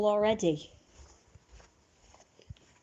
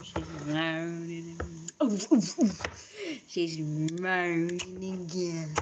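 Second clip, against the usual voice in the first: imitating remix; 3 semitones lower, slower than usual. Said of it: "funny remix of it where it just went".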